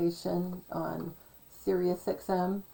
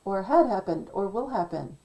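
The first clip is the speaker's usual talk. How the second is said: amazed gasp; 3 semitones higher, 5 dB louder, faster than usual. Retold or imitated. Imitating a fan who hears hidden meanings, loud amazed rush. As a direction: act out hearing the hidden meaning. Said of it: "and you go".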